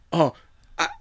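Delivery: high, loud, spooked mock whisper-turned-cry; lightly acted Mark, drawn to the welt; Mark entranced. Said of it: "Mark is like".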